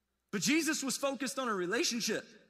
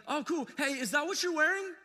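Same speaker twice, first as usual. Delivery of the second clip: higher, innocent-sounding jab; mock wife, sweetly pointed; 6 semitones higher than usual. Wife to husband at the door, sweetly pointed. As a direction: ask sweetly, meaning no. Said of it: "she's like".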